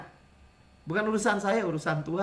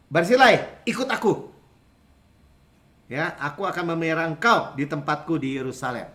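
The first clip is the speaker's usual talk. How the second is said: King David calling; 2 semitones lower, 3 dB louder than usual. Retold or imitated. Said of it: "Raja Daud bilang gini".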